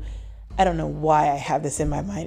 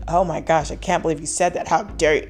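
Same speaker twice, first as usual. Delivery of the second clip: harsh tone; faster than usual. Retold or imitated. A friend imitating a harsh corrector, mild mock scolding. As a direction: play the scolder who can't believe it. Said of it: "in a harsh tone".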